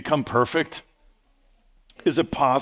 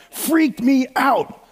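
freaked out; 12 semitones higher, 4 dB louder, much slower than usual. Real, not acted. Recalling a scary childhood movie.

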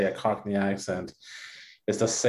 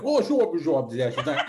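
Dick Van Dyke; 3 semitones higher than usual. Retold or imitated. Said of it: "every time I hear him, like".

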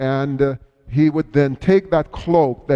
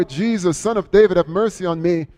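higher-pitched imitated plea; crying out louder; 3 semitones higher than usual. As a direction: imitate an insistent call, without full volume. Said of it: "crying out louder and louder".

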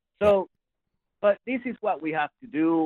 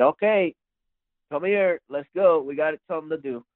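rallying; 4 semitones higher than usual. Retold or imitated. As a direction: round up the boys, lightly acted. Retold father rallying his sons.

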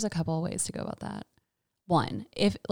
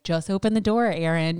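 coaxing; 4 dB louder than usual. Retold or imitated. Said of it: "coaxing voice of just being like".

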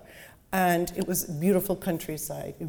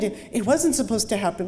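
stammered, raised plea stressing wasn't; panicked denial; 4 semitones higher, 4 dB louder, faster than usual. Acted. Victim pleading with his captor, panicked and stammering. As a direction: stumble over "It, it" and push "wasn't" up in fear. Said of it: "Panic flooded him".

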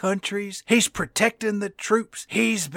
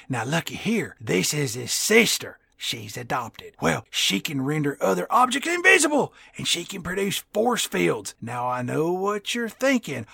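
put-on old prospector; 3 semitones lower than usual. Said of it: "he's like".

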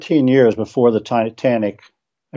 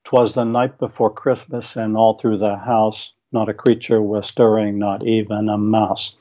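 lilting, spirited cadence like a canter; rhythmic holiday poem reading; galloping recital. Shown as a demonstration. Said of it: "kind of a spirited cadence".

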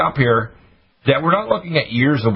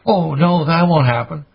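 higher, louder mocking voice of doubters; mock dismissive people; 5 semitones higher, 4 dB louder, slower than usual. Host mocking doubters with a higher, louder scoff. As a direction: scoff like the people who won't listen.

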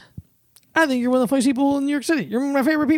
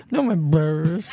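cheeks puffed, teeth together, slow droopy voice; 5 semitones lower than usual. Shown as a demonstration. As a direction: puff your cheeks out and talk slowly through them. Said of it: "puff up your cheeks".

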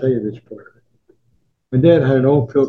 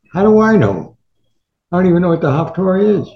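higher, louder, fast protest; exasperated father; 6 semitones higher, 5 dB louder than usual. Retold or imitated. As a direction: throw up your hands in disbelief. Father answers the rabbi, exasperated.

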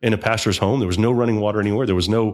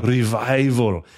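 revival drawn out very slowly; slow emphatic; much slower than usual. Shown as a demonstration. Preacher savours the corrected word, drawn out slowly. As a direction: let revival hang, slow and weighty. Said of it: "repeating the corrected word".

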